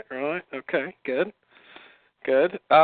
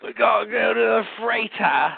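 put-on Aussie accent; 5 semitones higher than usual. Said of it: "that's Aussie".

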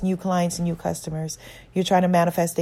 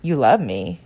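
mocking inner bully; 2 semitones lower than usual. Inner bully mocking her self-love, lightly voiced. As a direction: sneer it like a bully. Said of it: "that inner bully voice may come up with objections, saying".

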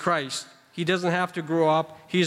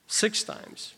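whispered emphasis; 3 semitones higher, 6 dB quieter than usual. Real, not acted. Stressing repeated phrase count.

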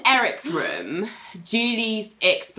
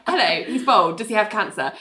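straightforward, unsoftened question; matter of fact. Retold or imitated. Ling to Eric's mum on meeting her, matter of fact. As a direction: ask it as a simple statement of business. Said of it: "very straightforward and matter of fact".

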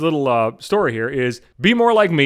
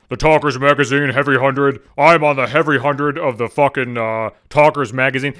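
mock bragging; 5 semitones lower than usual. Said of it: "he would fucking brag about that".

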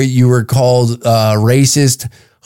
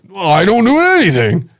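higher, sheepish voice; mock caller reply; 7 semitones higher than usual. Unemployed complainer admitting he does nothing, sheepish.

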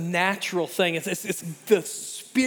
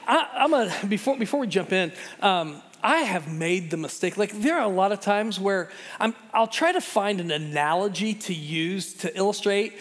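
normal talking voice

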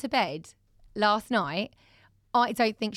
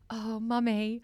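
crying child, imitated; 3 semitones higher than usual. Mum acting out her daughter's crying confession, mock wail. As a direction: imitate a child's anguished confession, drawn out at the end.

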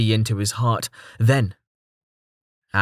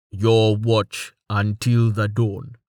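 slow stoic voice; much slower than usual. Acted. Tallheart slow verdict.

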